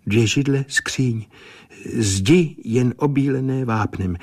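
a hint of a medium reporting what she sees; measured, trance-like clairvoyant reading; entranced seer. Seer's vision of room.

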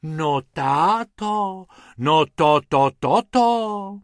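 slow, high amazed wife; drawn-out astonished sighs; sighing in awe. Acted. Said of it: "v jednom kuse vzdychala".

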